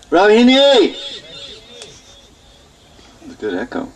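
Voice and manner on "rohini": high, carrying call of a name; pitched-up summons, last syllable held. Acted. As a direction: call to someone far off in the house. Yashoda calls out for Rohini.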